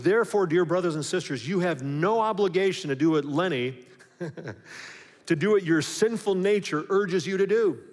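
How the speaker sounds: a preacher pressing the verse home; emphatic preaching. Shown as a demonstration. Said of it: "He goes".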